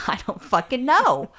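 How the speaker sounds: sharp fed-up retort, slowed; what I wanted to say to the French lady; irritated retort. Retold or imitated. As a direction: snap back at her, not knowing. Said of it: "I didn't say".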